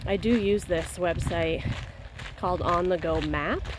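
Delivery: talking mid-jog; speaking while out running. Real, not acted. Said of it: "Cruising along at an eleven thirty pace".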